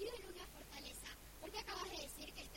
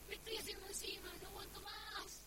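desperate whisper; 6 semitones higher than usual. Real, not acted. Kid begs the storyteller to let her go, straining. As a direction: beg through a strained whisper. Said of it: "Pará".

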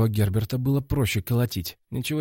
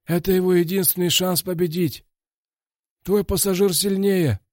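higher, louder coach warning; 9 semitones higher, 3 dB louder than usual. A narrator's reading. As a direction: warn him like a cornerman. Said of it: "напомнил он".

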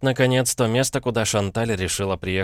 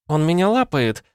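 higher, louder indignant cry; indignant outcry; 9 semitones higher, 5 dB louder than usual. A narrator's reading. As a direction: cry out in outrage. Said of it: "возмутилась Констанс".

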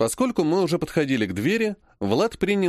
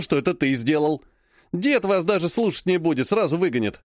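arrogant threat; 2 semitones higher than usual. Acted. Vlad threatens Ilya with a torn shirt, smug. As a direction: lord it over the cousin.

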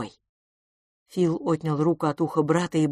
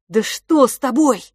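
bewildered cry; 7 semitones higher, 7 dB louder than usual. Acted. Bewildered twin.

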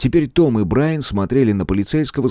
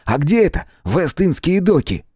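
put-on high, eager boyish voice; keyed-up, high-pitched asking; excited question; 10 semitones higher than usual. A narrator's reading. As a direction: press for the location, bursting with excitement. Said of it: "Том буквально подпрыгивал от возбуждения".

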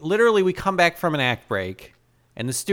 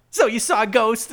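mock incredulous; 8 semitones higher than usual. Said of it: "And I was like".

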